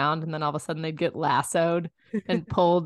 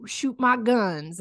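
lightly hammed-up cowboy; mock Western cowboy. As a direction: play a movie gunslinger, stretching the last words. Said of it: "the vibe of a, a Western is".

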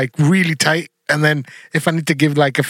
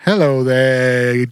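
wrestling villain promo; 5 semitones lower, much slower than usual. Pretend. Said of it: "let me start again".

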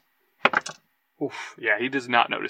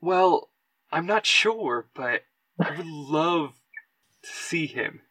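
lightly acted hopeful lift, a bit higher; perking up; 3 semitones higher, slower than usual. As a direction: let the hope creep into the voice. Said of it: "He, like, perks up".

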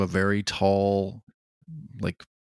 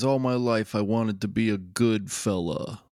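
Goodfellas narrator. Retold or imitated. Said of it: "intro scene to Goodfellas".

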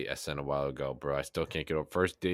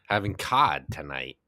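mock vlogger; 6 dB louder, slower than usual. Mocking Tony P vlog.

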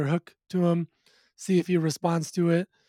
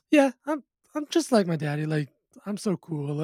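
mock kid bragging. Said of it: "almost, like, bragging to his friends".

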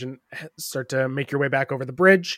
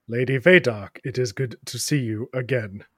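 lightly voiced knight; 2 semitones lower than usual. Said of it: "that's not how you address me. Try again".

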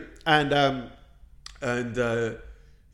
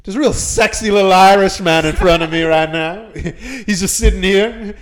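mock hushed mayor; 3 semitones higher, 6 dB louder than usual. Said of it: "he goes really quiet".

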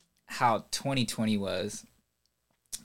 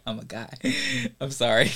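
laughing; 2 semitones higher than usual. Retold or imitated. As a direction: squeak it out while laughing. Host repeats guest's line laughing.

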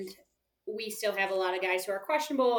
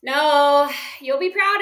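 loud exclamation; 3 semitones higher, 9 dB louder, slower than usual. Real, not acted. Reacting to surprise pick.

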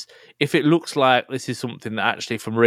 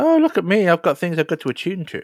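mock boasting; 7 semitones higher than usual. Mock boasting about attunement.

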